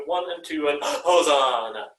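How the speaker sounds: late gasp before a rushed entry; snatch a breath, then lurch in; jerky and panicked. Shown as a demonstration. Conductor showing what not to do, panicked last-second gasp. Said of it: "Then it'll be jerky and panicked".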